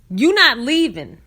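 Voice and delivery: firm quote. Retold or imitated.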